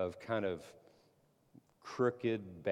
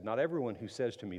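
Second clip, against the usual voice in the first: faster, lighter quote; quick recap reading; faster than usual. Shown as a demonstration. Preacher recalling the verse, quick and light. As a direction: rattle it off as a reminder. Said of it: "The verse I just read".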